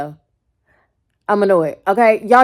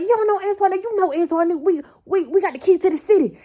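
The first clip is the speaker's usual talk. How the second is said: mock boasting man; 11 semitones higher than usual. Quoting the man.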